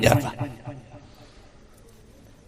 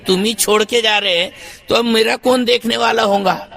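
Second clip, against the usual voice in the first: wife mocked. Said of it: "بولے".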